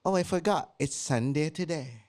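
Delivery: a lightly voiced British posh act; mock British accent. Listener asked for a birthday greeting in British accent, mock. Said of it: "British accent".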